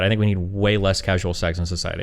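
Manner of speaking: said with a real laugh; laughing through it. Real, not acted. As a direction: laugh while you say it. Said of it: "say it one more time".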